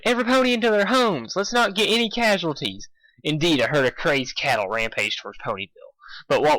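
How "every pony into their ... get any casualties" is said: urgent call. Acted. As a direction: call ponies to shelter. Continues holler.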